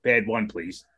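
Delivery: low voice calling pad one; hailing a taxi. Retold or imitated.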